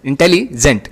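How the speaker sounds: इंटेलिजेंट with a break before जेंट; split syllables. Shown as a demonstration. Teacher recapping two syllable words, इंटेलिजेंट split before जेंट. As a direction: say इंटेलिजेंट as two separate pieces. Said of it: "इंटेली एक साथ जेंट".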